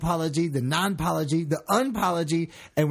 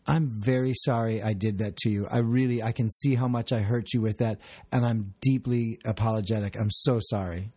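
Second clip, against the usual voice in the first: earnest, slightly lowered apology; a direct, contrite demonstration; sincere apology; 3 semitones lower than usual. Shown as a demonstration. Demonstrating a real apology to Leslie, sincere. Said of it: "so there's an actual apology".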